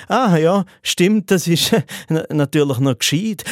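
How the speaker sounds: mildly thrown, hesitant acted reply; awkward, faintly bothered politeness; slightly irritated. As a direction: agree haltingly, a touch irritated. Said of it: "ich sag dann einfach leicht irritiert".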